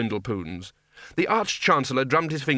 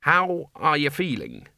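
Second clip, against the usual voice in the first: slow, raised-pitch enunciation; loudly; 5 semitones higher than usual. A narrator's reading. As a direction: speak up slowly, as to a hard-of-hearing old man. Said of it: "said the Dean loudly".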